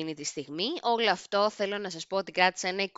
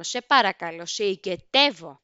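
beg, drawing the last word out slowly; acted pleading; 2 semitones lower, 3 dB louder than usual. Teen begging check-in staff to let her fly, acted pleading. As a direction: mock-desperate plea with a slow ending.

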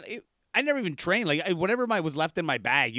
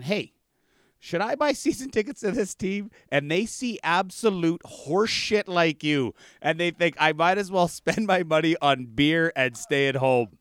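imitating the coach; 4 semitones higher than usual. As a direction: retell the coach tearing into a bad goalie. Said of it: "this is verbatim. He goes".

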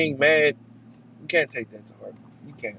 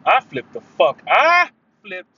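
tag; 3 semitones higher, 7 dB louder, slower than usual. Real, not acted. Emphatic retelling of losing temper.

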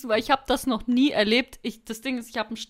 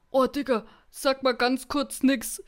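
hushed plea; 2 semitones higher than usual. Retold or imitated. Sick girlfriend quoted, hushed.

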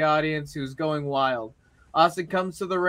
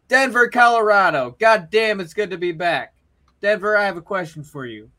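lightly voiced wrestling promo, a bit louder; Matt Cardona promo; 2 semitones higher, 6 dB louder than usual. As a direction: work the crowd like a cocky champion. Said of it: "your promo delivery for both of them was really good".

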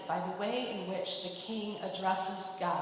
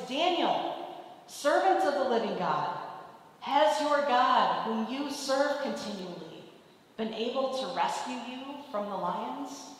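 a higher, louder anxious call across the den; distressed calling out; 3 semitones higher, 3 dB louder than usual. Acted. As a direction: call out to Daniel at dawn, fearing the worst. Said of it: "called out to Daniel in a distressed voice".

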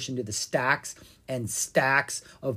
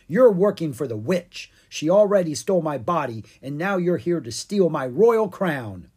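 lightly voiced king, higher and louder; accusing Pumpkin King; 5 semitones higher, 8 dB louder than usual. Pumpkin King accuses the dragons of spying, indignant. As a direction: accuse them like a wronged monarch.

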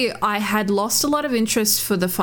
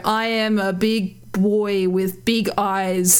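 mock poet; slower than usual. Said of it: "he's just like".

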